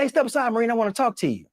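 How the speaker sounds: cheerful high-pitched President impression; imitating the President. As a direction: put on a folksy high presidential voice. Retelling the President's lines.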